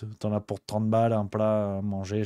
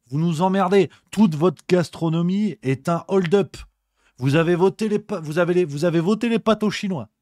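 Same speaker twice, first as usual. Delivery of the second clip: louder, higher mock outrage at Italians; mock rant; 5 semitones higher, 4 dB louder than usual. Comic rant at Italians over stolen dishes, loud and high. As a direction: rant like an offended food critic, hammed up.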